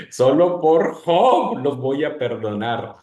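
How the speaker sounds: veredicto divino lento, en voz fuerte; voz de Dios. Acted. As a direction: perdona con voz fuerte y pausada. Repite imitando a Dios. (voz de Dios, fuerte y pausada)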